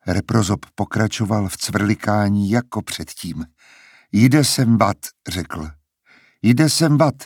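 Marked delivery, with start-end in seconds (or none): 6.4-7.1 higher, parroted echo of the same words; bird mimicking his voice. A narrator's reading. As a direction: repeat it like a mimicking bird, pitched up. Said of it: "zopakoval Reprozop jeho hlasem". (ptačí napodobení jeho hlasu, výš)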